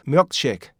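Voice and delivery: milkshake with a stopped k before shake; k held back. Shown as a demonstration. Teacher shows the k inside a phrase, stopped pronunciation. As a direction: say "milkshake" as myuk-shake, k unreleased. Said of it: "윽으로 변해요".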